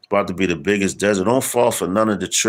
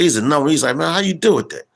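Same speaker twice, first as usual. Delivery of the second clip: imitated coworker; 9 semitones higher than usual. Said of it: "He said".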